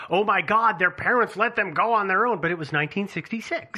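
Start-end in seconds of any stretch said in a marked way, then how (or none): 0.1-2.4 higher, louder imitation of shocked onlookers; mock freaking out. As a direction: imitate an appalled, panicky reaction. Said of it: "everybody's probably freaking out going".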